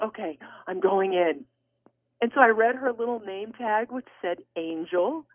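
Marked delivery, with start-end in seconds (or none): 0.0-1.5 resigned resolve. Retold or imitated. Gives in after panicked protest.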